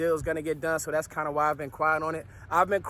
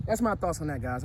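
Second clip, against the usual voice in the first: winded after a workout; out of breath; 3 semitones lower than usual. Real, not acted. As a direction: talk while catching your breath. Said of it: "I'm, I'm out of breath".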